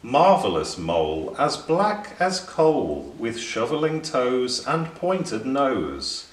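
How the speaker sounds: lightly voiced poem recital; reciting. Rhyming rabbit reciting a poem to the mole. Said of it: "began to recite".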